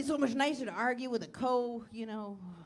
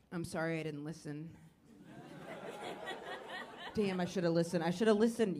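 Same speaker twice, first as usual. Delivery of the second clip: lower-pitched, mock-contrite regret; earnest apology; 5 semitones lower than usual. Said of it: "you have to sell it".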